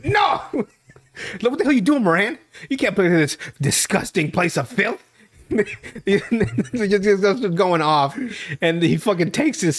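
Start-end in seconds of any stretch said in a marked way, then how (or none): 0.0-0.4 high, urgent mock protest; hammed-up outraged brother; alarmed big brother. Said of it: "and Thad's like". 1.4-5.0 mock outrage. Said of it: "and Thad's like".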